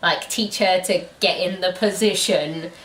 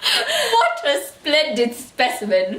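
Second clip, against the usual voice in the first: mock admiring; 7 semitones higher, much slower than usual. Mock-repeating the book's phrase.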